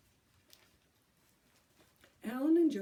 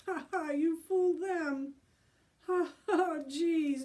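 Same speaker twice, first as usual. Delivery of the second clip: laughing; 7 semitones higher, 5 dB louder than usual. A narrator's reading. Boys laughing at prank.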